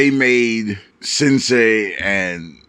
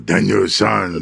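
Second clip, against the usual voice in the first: put-on wise old man voice; 5 semitones lower than usual. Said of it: "That smoky voice, wise old man voice".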